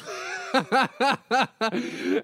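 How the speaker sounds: laughing hard at his own joke. Real, not acted.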